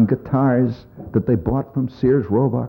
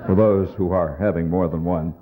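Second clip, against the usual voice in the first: lower, smooth pitchman voice; beer ad guy; 6 semitones lower, 4 dB quieter than usual. Retold or imitated. Comic mocking the beer commercial customer in a lower, smooth pitch. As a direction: savor it like a beer commercial actor. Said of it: "He looks at it and he says".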